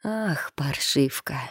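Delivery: soft, slow, stunned curse; inward exclamation. A narrator's reading. Mother silently cursing her daughter, inward exclamation. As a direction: draw it out under the voice. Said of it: "только и пронеслось в голове".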